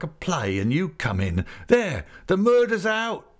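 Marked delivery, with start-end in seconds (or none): 1.7-3.3 louder, higher, slower joyful announcement; Peggotty revealing the engagement to his guests; triumphant outburst. A narrator's reading. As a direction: blurt the secret out in triumph. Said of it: "said Mister Peggotty".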